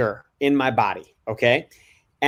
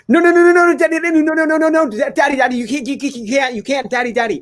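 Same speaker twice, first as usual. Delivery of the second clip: put-on high, frantic little boy wail, louder; imitating panicking child; 14 semitones higher, 3 dB louder, faster than usual. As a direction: squeal like a five-year-old losing his cards. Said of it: "So he was like".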